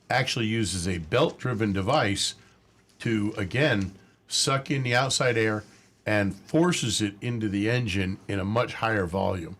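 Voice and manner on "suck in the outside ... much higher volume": usual speaking voice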